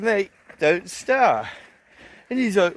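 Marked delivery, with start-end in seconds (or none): 0.0-1.5 slow warning. Retold or imitated. Warning the aggressive bloke.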